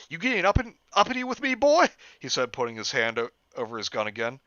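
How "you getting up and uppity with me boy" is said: high, fast, loud redneck challenge; menacing hick cop. Acted. Officer threatens Jeff, high and fast. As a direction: bristle at the uppity boy.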